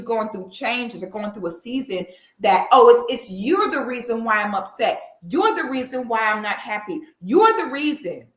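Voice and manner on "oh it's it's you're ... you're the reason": mock accusing spouse. Mocks a spouse blaming partner.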